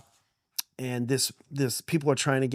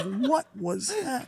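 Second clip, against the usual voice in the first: put-on stunned kids; 12 semitones higher, much slower than usual. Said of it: "We're like".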